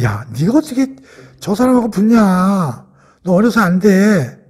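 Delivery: slow, drawn-out mock objection; dismissive. King Saul telling young David no, drawn-out dismissal. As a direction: stretch the words in doubting dismissal.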